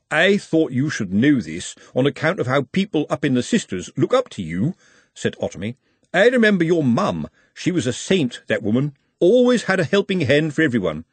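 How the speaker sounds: a lightly voiced sly, nosy busybody; insinuate, fishing for a reaction; lightly voiced sly snoop; sly nosy watchman. Ottomy's voice.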